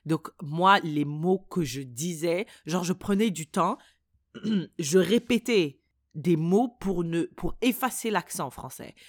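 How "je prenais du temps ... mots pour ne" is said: normal talking voice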